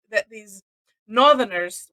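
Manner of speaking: put-on Georgia Southern drawl; Georgia accent. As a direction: play up a Georgia accent, slowing the words. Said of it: "that's kind of a Georgia accent".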